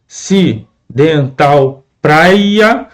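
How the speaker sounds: slow, syllable by syllable; lu-si-ta-na, stretched slowly with a falling end; syllables spelled out. Shown as a demonstration. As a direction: draw out each syllable of lusitana. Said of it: "qual é a sílaba mais forte?".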